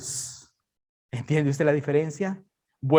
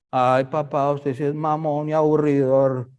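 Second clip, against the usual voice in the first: put-on whiny kid; 3 semitones lower than usual. Voicing his children complaining.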